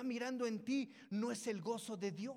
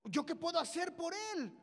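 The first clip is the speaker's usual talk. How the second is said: retold king's startled protest, rising higher; mock alarm; 4 semitones higher than usual. Preacher voices Israel's king asked to heal a leper, mock alarm. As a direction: act out a taken-aback king, mildly exaggerated. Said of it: "se espanta y dice".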